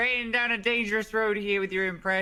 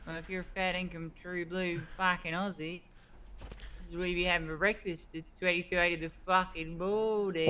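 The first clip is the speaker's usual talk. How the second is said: put-on Australian accent; 4 dB quieter than usual. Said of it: "Australian voice actor".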